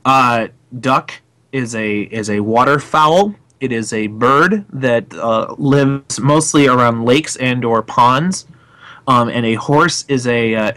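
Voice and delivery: slow, deadpan definition; mock dictionary definition. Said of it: "background and origin of this word".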